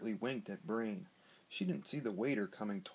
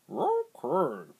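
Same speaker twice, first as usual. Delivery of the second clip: louder, higher barked okay like a dog; 5 semitones higher, 9 dB louder than usual. A narrator's reading. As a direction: bark the word like a dog. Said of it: "barked Brain".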